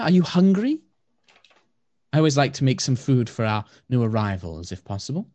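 soft elf sister. Acted. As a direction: welcome the new guests kindly. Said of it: "in a very soft voice".

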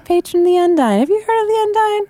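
folksy Southern turtle, high and friendly; high southern twang. Acted. Turtle warlock mentions his patron, high Southern twang. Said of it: "high-pitched voice with a little bit of a southern twang".

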